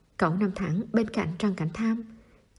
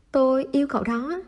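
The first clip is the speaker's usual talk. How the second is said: higher, pushed out to be heard; mild louder confession; 7 semitones higher, 3 dB louder than usual. A narrator's reading. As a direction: say it again so he hears. Repeating confession, louder each time.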